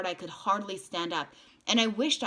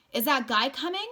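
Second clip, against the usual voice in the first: shouting; 8 semitones higher, 6 dB louder than usual. A narrator's reading. Shouting in fire.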